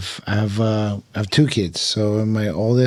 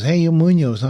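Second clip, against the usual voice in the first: higher, louder Oklahoma cowboy voice; drawling cowboy; 8 semitones higher, 4 dB louder than usual. Retold or imitated. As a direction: play the tobacco-chewing Oklahoma local. Oklahoma equipment manager voiced in story.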